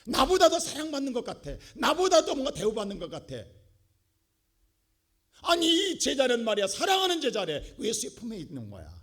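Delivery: high, loud jealous grumble; a jealous disciple complaining out loud; jealous Peter. Retold or imitated. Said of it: "베드로 눈에".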